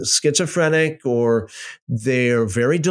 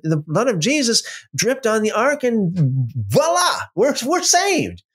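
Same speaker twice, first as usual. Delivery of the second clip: rising higher, mock-ecstatic preacher build; mock preachy excitement; 5 semitones higher than usual. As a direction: ham up the triumphant ending. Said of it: "It's like".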